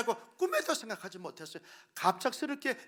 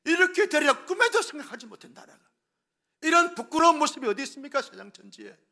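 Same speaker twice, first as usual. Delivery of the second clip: loud, high preacher's outcry; preaching at full force; 8 semitones higher, 13 dB louder than usual. Acted. Pastor rebuking the congregation, loud preaching outcry. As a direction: thunder it from the pulpit.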